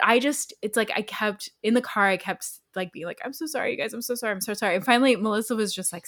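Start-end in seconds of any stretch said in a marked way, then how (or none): 3.2-4.8 soft, repeated mock apology; small voice, starting high and sinking; apologetic. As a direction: imitate yourself sheepishly over-apologizing. Retold repeated apologies in car.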